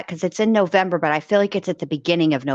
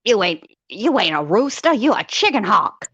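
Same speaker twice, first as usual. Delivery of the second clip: Foghorn Leghorn impression; 3 semitones higher than usual. Host quoting the cartoon rooster to a co-host, lightly voiced. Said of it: "He's like".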